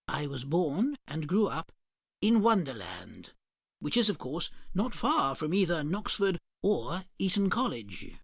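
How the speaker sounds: a dignified dodo explaining. Acted. Customer dodo.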